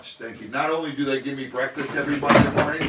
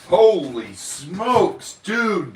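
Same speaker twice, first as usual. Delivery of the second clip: excited; 5 semitones higher, 6 dB louder, much slower than usual. Real, not acted. Hearing the thousand dollar total.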